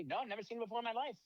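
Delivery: high, fast mock denial, voice pushed way up; Bugs playing dumb. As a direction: play innocent in a high rushed voice, lightly mocking. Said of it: "He's like".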